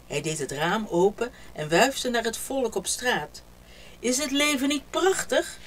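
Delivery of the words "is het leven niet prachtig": higher, louder joyful exclamation; exclaiming. A narrator's reading. King calling to people in the street, joyful. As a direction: call it out the window to everyone. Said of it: "riep de koning uit".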